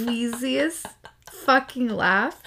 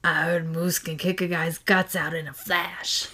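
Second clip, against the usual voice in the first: Gina voice; 3 semitones lower, 3 dB quieter than usual. Acted. Voicing Gina in a comic reading.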